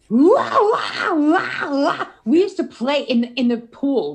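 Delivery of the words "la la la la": higher, louder cries breaking through the la-la; mock panic as she's dragged under; panicked la-la. Girl being pulled under by the shark, crying out higher and louder.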